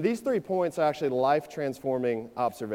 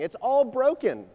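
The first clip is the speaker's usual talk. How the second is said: high, loud, drawn-out mock wail; shrill grandma; 12 semitones higher, 6 dB louder than usual. Grandson mimics grandma freaking out over computer, shrill. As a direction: exaggerate a grandma's shrill meltdown, slowly. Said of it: "I hear this shrill of a voice".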